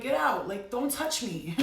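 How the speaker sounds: sharp loud "Get out", then slow "don't touch me"; demonstrating telling a spirit to leave, firm; mock firm command. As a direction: order the spirit away, slowing down. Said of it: "You could be like".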